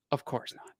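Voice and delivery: soft, breathy denial; hushed of course not; innocent lie. Retold or imitated. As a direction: lie quietly and smoothly. Lying to the mom.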